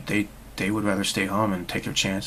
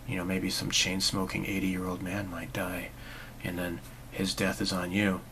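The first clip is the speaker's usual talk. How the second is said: whispered, softer mock warning; 2 semitones lower, 6 dB quieter than usual. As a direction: hush it like a spooky scare.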